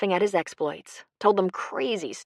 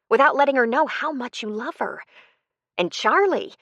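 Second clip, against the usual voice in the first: higher-pitched, emphatic character voice; raised pitch, pressing appeal; Jo, earnest pleading; 6 semitones higher, 4 dB louder than usual. Acted. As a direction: urge a loved one to mend things. Novel dialogue, Jo urging Lou.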